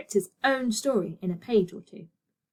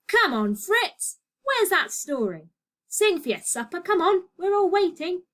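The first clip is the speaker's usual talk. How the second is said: rowdy call; 9 semitones higher than usual. A narrator's reading. Patrons calling for a story.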